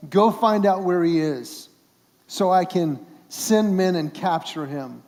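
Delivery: loud barked order, like a king sending soldiers; commanding king. Acted. King orders his men.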